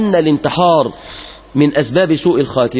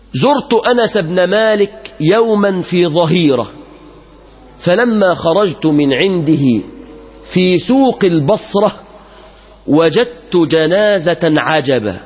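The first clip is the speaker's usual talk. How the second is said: slow, measured classical Arabic storytelling; solemn story narration; 3 semitones higher, slower than usual. A narrator's reading. Preacher telling worshippers an old tale, slow and solemn. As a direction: draw the congregation into the tale.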